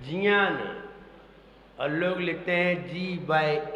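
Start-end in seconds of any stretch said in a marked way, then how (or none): 0.0-0.8 ज्ञान said as "jiyaan", lower than usual talk; corrected pronunciation. Shown as a demonstration. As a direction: say ज्ञान starting on j, as "jnyaan". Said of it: "जे एन ए एन". (ज्ञान को "जियान" जैसा, ज से बोलते हुए)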